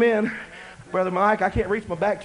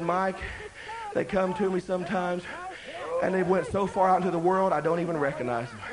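quiet crying; 4 semitones lower, 7 dB quieter than usual. Retold or imitated. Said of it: "And he started crying".

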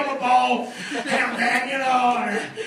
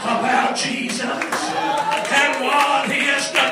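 slow, drawn-out declaring; fervent preaching; 3 semitones higher, slower than usual. Real, not acted. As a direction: proclaim it to the whole church, stretching the words. Preaches at full force.

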